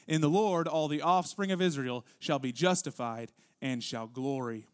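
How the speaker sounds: solemn, weighty read of God's own words; scripture reading. Acted. Pastor reading Isaiah aloud to the congregation, solemn and weighty.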